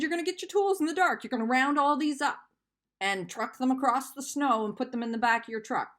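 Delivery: rattling off orders at him, exasperated; mock angry telling-off. Retelling how she ordered her ex out, fast mock scolding.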